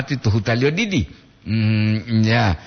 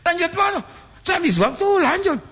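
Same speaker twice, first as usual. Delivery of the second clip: much higher, squeaky playful mock voice with laughter; Bapak Pento's intonation. Streamer mimics a viewer's intonation while moving on, high mock voice. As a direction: imitate a viewer's singsong way of saying lanjut. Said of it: "Itu Bapak intonasi Bapak Pento Poli itu".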